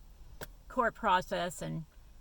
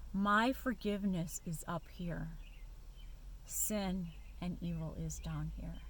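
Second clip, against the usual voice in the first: voice of God. Retold or imitated. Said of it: "I felt God say to me".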